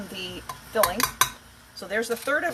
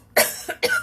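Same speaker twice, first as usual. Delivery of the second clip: coughing; 6 dB louder than usual. Real, not acted. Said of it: "I'm coughing now".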